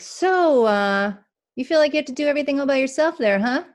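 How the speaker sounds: lightly voiced God gently coaxing the part; gentle knowing God.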